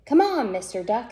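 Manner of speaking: cow voice. Acted. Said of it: "said Cow".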